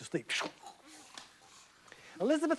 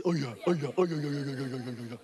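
fading boast; 4 semitones lower, much faster than usual. Acted. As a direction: brag lazily and fade. Dragon boasting again.

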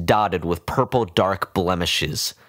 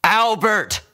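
urgent call; 4 dB louder than usual. A narrator's reading. Vet calls again.

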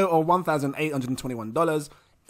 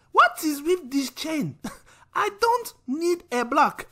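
high, slow, bemused mother voice; mother voice, slowed and laughing; puzzled mum; 10 semitones higher, slower than usual. Acted. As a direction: mum confused by blockchain. Mother voice in acted skit.

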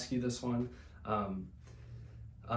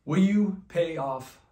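a slow, pleading cry for help; desperate plea; 7 dB louder, slower than usual. Acted. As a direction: beg him with your last hope.

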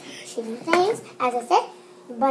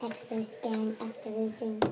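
put-on activation voice; 6 semitones lower, 12 dB quieter than usual. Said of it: "There's my voice".

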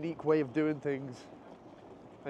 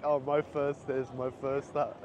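mock wonder; slower than usual. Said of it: "Everything's like".

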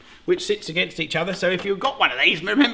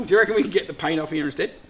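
ordinary talk

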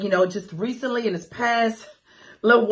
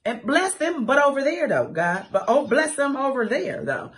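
sassy dismissal; 6 semitones higher than usual. Real, not acted. Dismissive blessing.

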